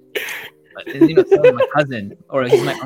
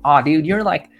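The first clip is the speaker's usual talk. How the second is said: mock enthusiastic dude; 5 semitones higher, 8 dB louder than usual. People tell me stupid things.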